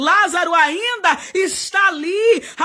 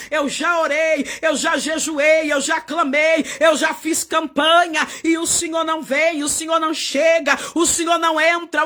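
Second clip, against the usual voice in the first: voiced complaint. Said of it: "Talvez você tá aí dizendo".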